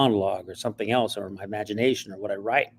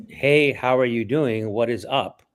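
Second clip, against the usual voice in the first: stiff misread; slower than usual. Shown as a demonstration. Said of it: "someone might read it".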